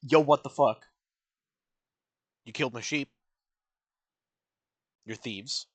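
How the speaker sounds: loud imitated outburst at the thieves; mock outrage. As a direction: play the angry giant, half-joking. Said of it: "and he's just like".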